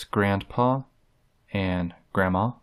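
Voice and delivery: grandpa and grandma with the nd nearly gone; almost swallow the nd in grandpa and grandma; dropped N D. Shown as a demonstration. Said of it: "dropping the N D there almost".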